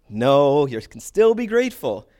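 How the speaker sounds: loud, insistent corrector; mock emphatic correction. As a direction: set them straight with a big no. Acted sketch-style correction of confused person.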